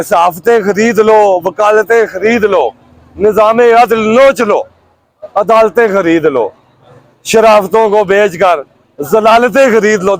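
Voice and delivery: measured, declaimed Urdu verse with falling line ends; rhythmic protest poetry; poem recitation. Acted. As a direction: recite it line by line, pausing after each.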